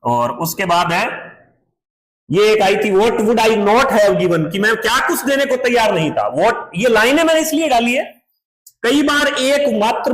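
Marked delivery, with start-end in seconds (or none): 2.9-4.5 very slow, stressing not; teacher reading slowly; slow reading aloud. Shown as a demonstration. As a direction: read the line slowly, leaning on not. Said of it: "teacher reads text line".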